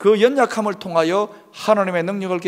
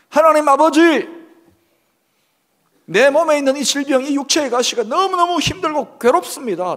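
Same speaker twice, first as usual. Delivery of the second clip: loud, high-pitched pleading to God; earnest pleading prayer; 9 semitones higher, 7 dB louder than usual. Acted. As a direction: cry out urgently in fervent prayer. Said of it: "간절히 아뢰었을 것입니다".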